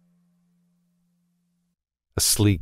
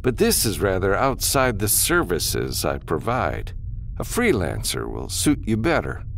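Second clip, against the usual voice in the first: lightly voiced formal, polite refusal; businessman, dismissive; 4 semitones higher than usual. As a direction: turn the caller down with measured courtesy. Businessman turns the caller down.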